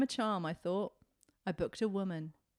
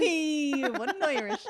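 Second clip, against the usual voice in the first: laughing lightly Irish voice; slow laughing Irish lilt; Irish accent; 4 semitones higher, 3 dB louder, slower than usual. Pretend. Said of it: "now you're doing the accent".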